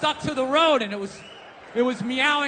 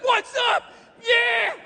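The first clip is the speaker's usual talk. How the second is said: high, loud hyped-up ape voice; excited gorilla; 11 semitones higher, 3 dB louder, much slower than usual. Acted. Gorilla greeting the zookeeper, high and loud with joy. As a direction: shout it like an overjoyed ape. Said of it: "So the thing's like".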